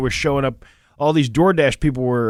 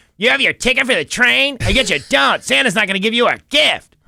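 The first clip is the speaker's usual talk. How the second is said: put-on annoying kid voice, higher in pitch; 10 semitones higher, 4 dB louder than usual. Imitating the kid who gets on the train in The Polar Express: Polar Express kid voice. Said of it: "the one who talks like this all the time".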